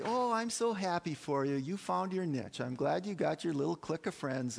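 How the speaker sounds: mock-happy gush, easing down; patronizing gladness. Churchgoers congratulating a friend on a little clique, patronizing. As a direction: imitate condescending congratulations. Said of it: "and we say".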